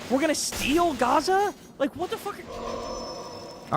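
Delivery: slow, disbelieving fury; real outrage about to lose it; exasperated outrage. Real, not acted. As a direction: let the anger boil over in disbelief. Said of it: "I gotta calm down".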